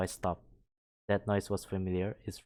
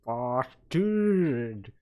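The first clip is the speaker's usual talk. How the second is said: high, loud exclamation, the last words slowly drawn out; startled loud outburst; 4 semitones higher, 8 dB louder, much slower than usual. Acted. Ned after Sean bumps into his chest, loud startled outburst. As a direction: blurt it out, shaken and loud.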